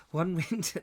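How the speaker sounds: hammed-up Brummie attempt, giggling; comedy Birmingham accent. Reader tries a Birmingham boatman and breaks up, comedy Birmingham accent. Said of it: "I can only do a comedy version".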